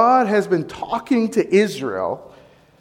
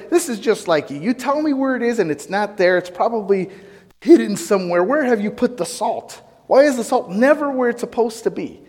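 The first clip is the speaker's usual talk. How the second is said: upset complaint; 6 semitones higher than usual. Retold or imitated. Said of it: "and then I say".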